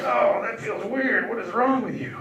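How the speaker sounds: high, slow, stretched disgust; mock disgusted squeal. Comedian quotes himself recoiling from his girlfriend, high slow squeal.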